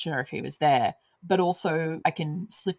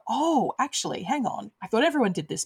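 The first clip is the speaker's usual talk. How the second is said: higher-pitched mock surprise; dawning realisation; 6 semitones higher than usual. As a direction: act out suddenly doubting what seemed universal. Acting out realising a cultural difference.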